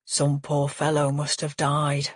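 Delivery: father lost in dementia, musing slowly. Acted. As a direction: drift through it slowly, mind gone again. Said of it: "he says slowly".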